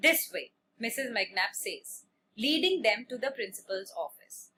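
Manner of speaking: slow, measured classroom reading; story read-aloud. A narrator's reading. Teacher reading a story to a class, measured read-aloud. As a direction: read it out slowly, phrase by phrase.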